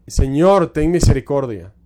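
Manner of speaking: loud, pleading cry to God; desperate plea. Retold or imitated. Mother crying to the Lord over her fallen daughter, loud desperate plea. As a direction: cry out for mercy over your child.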